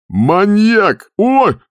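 very high, loud outburst then yelp; shriek. A narrator's reading. Skipper yells, gets hit. (шкипер визжит от возмущения и боли)

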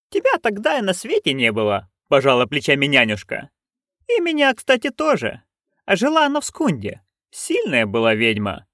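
put-on high, lively old witch; a cheeky old woman griping; Nanny Ogg.

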